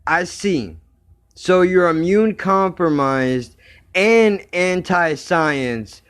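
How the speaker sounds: slow, smug mock reading. Quoting the woman's smug reply, slow and mocking. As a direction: drag out the condescension. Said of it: "she says the best thing".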